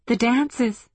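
voiced, high, emphatic agreement; confirming. A narrator's reading. Woman answers Ohashi's whisper, confirming aloud.

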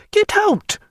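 second shout at a servant who won't leave; shouted again. A narrator's reading. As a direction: throw him out with the voice. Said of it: "she shouted at a servant".

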